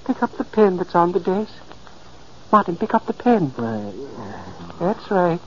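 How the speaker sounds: soft, coaxing guidance. Acted. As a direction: guide him gently, quietly. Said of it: "I spoke softly".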